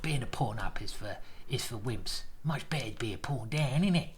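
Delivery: hushed mock South London accent; jokey South London impression; Garry Kasparov. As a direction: put on a soft, husky South London voice. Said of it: "he's saying it in this accent".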